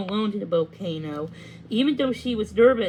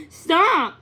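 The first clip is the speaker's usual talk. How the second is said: chuckling; 7 semitones higher, 6 dB louder than usual. Acted. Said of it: "Pippa chuckled".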